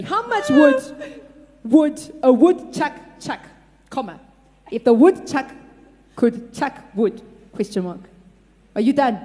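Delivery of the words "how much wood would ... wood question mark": spaced out, each chunk on its own; slowly. Shown as a demonstration. Slow dictation for the blindfolded typist. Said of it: "let me say that slowly".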